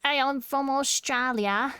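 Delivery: mock-aggressive Aussie, drawn out; aggressive Australian. Shown as a demonstration. Streamer showing chat their picture of Aussies, mock-aggressive Australian. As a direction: push out a pugnacious Australian accent. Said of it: "I always do it really aggressive".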